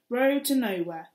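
slow angry repeat. Acted. Kat crushing the can.

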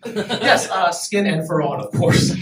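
a hammed-up fancy diner, laughing through it; mock posh diner. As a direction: order it like a snooty gourmet, grinning. Mock customer ordering exotic food.

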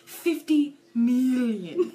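slow, stretched-out "million"; hammed-up movie villain, badly faked; attempted villain voice. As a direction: draw it out like a cartoonish supervillain. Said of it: "Not voices".

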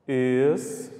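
"Espantados" with very long gaps between syllables; sílaba por sílaba. Shown as a demonstration. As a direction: dictate "Espantados" one isolated syllable at a time. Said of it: "Já fiz a separação aqui, ó, só em falar". ("Espantados" com longas pausas entre as sílabas)

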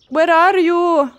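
loud, high, slow call for a lost item. Real, not acted. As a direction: call out searching around the car. Calling out for lost part.

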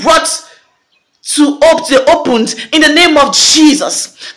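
emphatic prophetic declaration, pitch lifted; preacher driving each phrase home; fervent preaching. Real, not acted. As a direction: declare it forcefully to the congregation.

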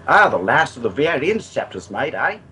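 a hint of hammed-up Australian; bad Australian accent. Gamer quoting Mad Max to his co-hosts, bad Australian accent. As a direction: have a rough go at an Australian accent. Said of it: "that's my really bad Australian accent".

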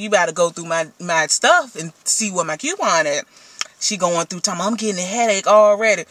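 talking while chewing gum; words round a wad of gum. Real, not acted. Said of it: "excuse me, y'all, for this gum chewing".

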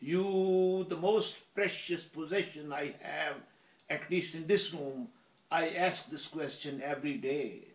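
earnest recited plea; mildly dramatic entreaty; imploring. Acted. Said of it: "I would implore her".

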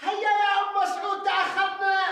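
calling out. Acted. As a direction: shout for someone to come along. Calling her to hurry, they are late.

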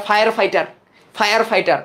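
ফায়ার ফাইটার as two English-sounding words; both words of ফায়ার ফাইটার begin with F; memory-aid pronunciation. Shown as a demonstration. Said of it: "মানে এইভাবে উচ্চারণ করি".

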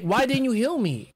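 retold indignant demand. Retold dungeon argument with healer.

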